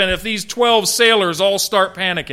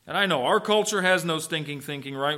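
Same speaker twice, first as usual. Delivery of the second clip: sarcastic; 5 dB quieter than usual. Acted. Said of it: "We understand everything perfectly".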